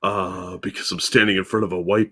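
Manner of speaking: cult leader voice. Retold or imitated. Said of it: "I talk like a cult leader".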